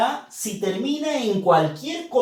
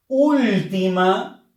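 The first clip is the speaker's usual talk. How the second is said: "Última" stretched slowly on the UL; counting syllables; 4 dB louder, slower than usual. Shown as a demonstration. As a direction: draw out "Última" as if counting aloud. Teacher counting syllables from the end.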